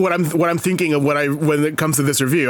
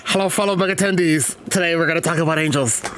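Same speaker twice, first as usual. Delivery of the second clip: glib impression. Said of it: "let me do my glib impression".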